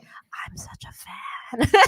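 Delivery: drawn-out, voiceless fangirl squeak; starstruck fan. Retold or imitated. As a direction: gush breathlessly, stretching it out slowly. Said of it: "I was like".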